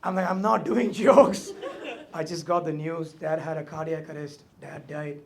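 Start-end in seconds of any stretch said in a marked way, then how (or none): 0.3-1.5 laughing insistence. Retold or imitated.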